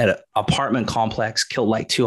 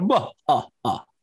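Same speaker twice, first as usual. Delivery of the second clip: higher, louder mock vampire voice. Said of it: "It's like Vladimir the Vampire".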